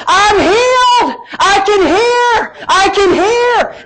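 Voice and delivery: high, drawn-out tearful wail, imitating her; retold joyful crying. Girl crying to youth leader that she's healed, imitated joyful wail. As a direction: cry it out high and long, as if bawling with joy. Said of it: "she's crying".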